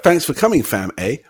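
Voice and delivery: lightly voiced housewife, lilting up then dropping on "eh"; imagined Canadian housewife. Guest imagining a housewife thanking visitors, lightly mimicked. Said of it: "She'd be like".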